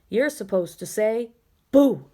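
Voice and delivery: owl correcting the ghost, Boo loud. Acted. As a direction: lecture him like a wise owl. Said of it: "said the owl".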